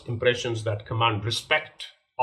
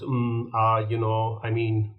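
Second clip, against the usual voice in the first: nervous filler words; 4 dB louder, slower than usual. Shown as a demonstration. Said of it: "start leaning for the filler words".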